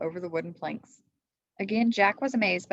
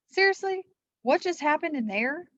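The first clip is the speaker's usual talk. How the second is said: Jack voice; 9 semitones higher, 4 dB louder than usual. A narrator's reading. Jack asks, voiced higher.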